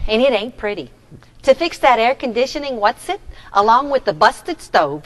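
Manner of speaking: put-on a light Brooklyn accent in character. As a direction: play the grumbling landlord with a Brooklyn accent. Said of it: "is that your Brooklyn accent".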